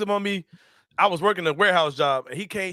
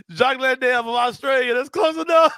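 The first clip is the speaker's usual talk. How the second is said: mock coach voice; 4 semitones higher, 3 dB louder than usual. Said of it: "Coach Vaughn said".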